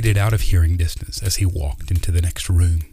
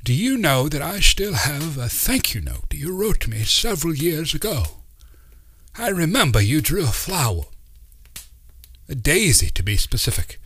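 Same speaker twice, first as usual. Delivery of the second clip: put-on wise old uncle; 8 semitones higher than usual. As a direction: speak like a kindly mystic uncle teaching children. Uncle Doc's voice.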